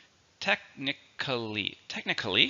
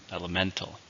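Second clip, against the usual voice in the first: "Elemental" stressed on MEN, said softly; stress on third syllable; 3 semitones lower, 6 dB quieter than usual. Shown as a demonstration. Teacher models the word for learners, stressing MEN in "Elemental". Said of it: "stress is on the third syllable".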